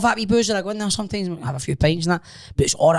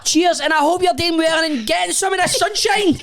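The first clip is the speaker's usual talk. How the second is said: much higher, laughing put-on politeness; mock cheery voice. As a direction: giggle through a sugary farewell. Mimicking the cheery chat.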